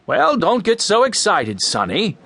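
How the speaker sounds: put-on man brushing off an upset boy; dismissive man. A narrator's reading. Man soothing an angry boy.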